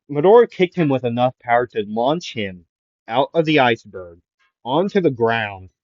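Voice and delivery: plain reading voice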